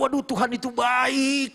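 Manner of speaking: high, drawn-out exclamation; imitated gushing praise. Young convert always raving that God is good, imitated gushing. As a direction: gush it, stretching the words.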